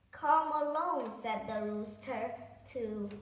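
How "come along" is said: calling out. Acted. Rooster calling the hens.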